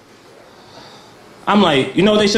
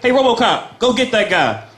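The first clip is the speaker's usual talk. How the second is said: mocking bystander; 4 semitones higher than usual. Taunting RoboCop in mock voice.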